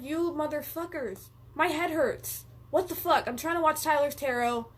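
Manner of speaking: aggrieved mock cursing; retold cursing. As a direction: cuss them out in a retold, exasperated whine. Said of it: "I was cursing at my guides".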